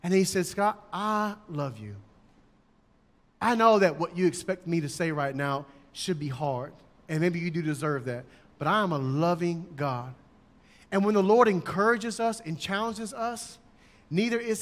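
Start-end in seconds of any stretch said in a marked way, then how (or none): 0.5-10.1 gentle, quieter and lower; God gently reassuring Scott, lightly voiced; soft loving God. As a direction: speak softly, tenderly to Scott. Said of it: "he came to me so soft".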